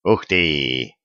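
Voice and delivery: low, hushed wow; a low exclamation of wonder; amazed gasp. A narrator's reading. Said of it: "ахнул он". (изумлённо ахнуть, низко)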